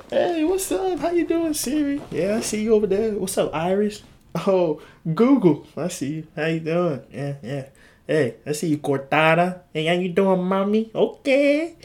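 high, playful put-on greeting; mock friendly greeting. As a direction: greet the gadgets like pals in a high voice. Acts out greeting AI assistants sweetly.

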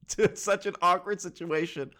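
high, breaking out of a laugh. Real, not acted. Teller pictures them walking in on him, laughing. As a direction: talk through real amusement.

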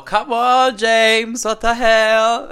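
loud, high, exasperated outburst; exasperated shout. Real, not acted. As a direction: yell at James in disbelief. Outraged at James's outfit.

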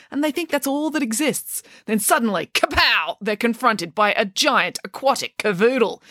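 a mum riffing on the dog and the fish; playful storytelling mum. Acted. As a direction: spin a silly tale for her daughter.

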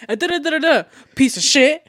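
high, loud nonsense babble slowing onto the insult; imitating partner's outburst. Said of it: "You're like".

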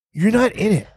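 not pushed high and falling; stress on not. Real, not acted. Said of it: "stressing the point".

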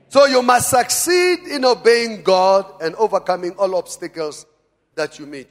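emphatic sermon delivery; forceful preaching. Real, not acted. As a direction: urge the congregation on.

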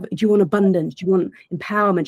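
lightly put-on coaching sales pitch; a hint of a jargon-spouting coach, imitated; mock business jargon. Coach imitating business jargon talk, lightly mocking sales pitch. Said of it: "we think we've got to sound like this".

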